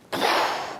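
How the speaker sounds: acted breathy sigh; wordless mock-stunned puff of air; stunned exhale. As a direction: let out a long, amazed breath. Acts stunned reaction to pay.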